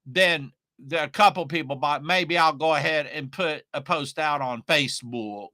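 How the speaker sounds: lightly put-on voice of a dithering beginner; a hint of a mocking, hesitant voice. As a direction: make fun of the timid launcher who hedges everything. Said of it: "I don't know why I use that voice".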